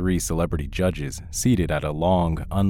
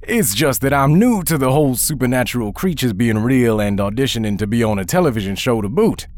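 nervous judge; 8 semitones higher, 6 dB louder than usual. Acted. Judge nervously probes the zombie.

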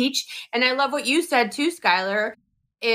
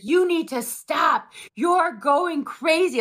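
slower, higher, raising his voice at her; half-playful imitation of a husband shouting at his wife; husband's mock yell; 5 semitones higher, slower than usual. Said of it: "he's like".

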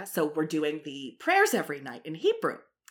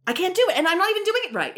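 much higher, protesting whine; high-pitched frustration; 14 semitones higher, faster than usual. Real, not acted. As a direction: give up on it in a high voice. Frustrated at failing the sound.

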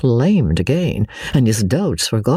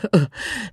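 flustered laugh; 11 semitones higher, 3 dB quieter than usual. A narrator's reading. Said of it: "a flurry of pleasure and perplexity".

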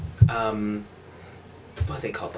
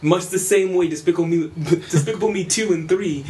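mock enthusiasm; 5 semitones higher, 4 dB louder than usual. Teasing mock praise of Minions.

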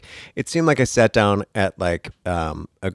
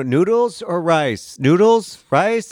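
1 flustered; 8 semitones higher, 6 dB louder, much slower than usual. Retold or imitated. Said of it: "I'm like".

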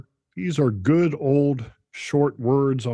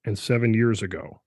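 measured poetic reading; poetic recitation; 3 semitones lower than usual. Shown as a demonstration. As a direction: let the cadence carry it. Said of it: "you hear it in the language itself".

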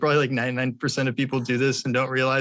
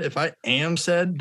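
AM slow and leaned on, pitch lifted; stress on AM; 5 semitones higher than usual. Shown as a demonstration. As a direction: stretch out "am" to mark identifying. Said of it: "that's identifying me with being sad".

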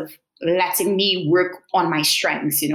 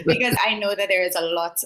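nervous laugh; faster than usual. Real, not acted. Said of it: "that really is a nervous laugh".

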